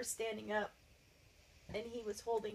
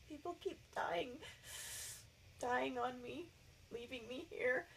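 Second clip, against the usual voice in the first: holding back real tears, pitch raised at first; tearful; 4 dB quieter than usual. Real, not acted. Client tells therapist of losing people, tearful. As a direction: say it through real tears, haltingly. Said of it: "Don't worry about your tears".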